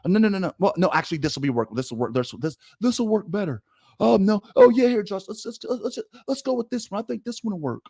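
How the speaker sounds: mock panicking coordinator on the headset; flustered play-caller. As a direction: fumble between calls, unsure and rushed.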